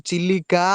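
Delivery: ଚିଲିକା ending on a long held "aa"; stretched final ā. Shown as a demonstration. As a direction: lengthen the କା of ଚିଲିକା. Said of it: "ଉଚ୍ଚାରଣ କଲାବେଳେ ଆ ହିଁ ହୁଏ". (ଚିଲିକାର ଶେଷ "ଆ" କୁ ଲମ୍ବେଇ)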